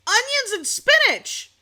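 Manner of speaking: loud slow outraged repeat; indignant emphatic exclaim. Real, not acted. Outraged repeat of price complaint.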